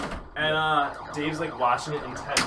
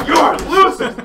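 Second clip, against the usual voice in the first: much louder and higher, jeering; taunting yell; 12 semitones higher, 11 dB louder, slower than usual. Retold or imitated. Dave mocking the stranded guys as the taxi passes, yelling. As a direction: yell it out the cab window. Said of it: "Yelling at us".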